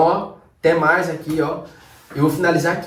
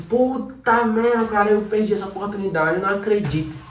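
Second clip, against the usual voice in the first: frustrated regret; 3 semitones higher than usual. Retold or imitated. The trader groaning over a missed trade, frustrated. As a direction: really let the missed chance hurt. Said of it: "Ela não é assim".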